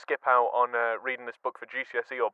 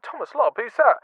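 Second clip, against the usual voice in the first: puzzled wondering; 9 semitones higher, 5 dB louder than usual. Retold or imitated. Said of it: "So I thought".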